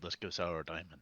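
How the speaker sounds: retold yell. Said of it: "I would have yelled at Payne".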